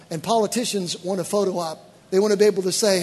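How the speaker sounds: usual speaking voice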